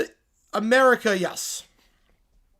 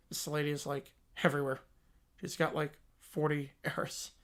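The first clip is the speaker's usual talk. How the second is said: put-on lower, softer dopey teen voice; slack-jawed dim teenager; Beavis and Butthead; 6 semitones lower, 9 dB quieter than usual. Dim teen mocking the pop star on TV, dopey.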